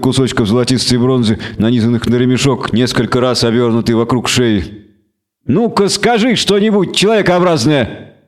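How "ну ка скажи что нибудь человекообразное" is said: hissed. A narrator's reading. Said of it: "прошипела она".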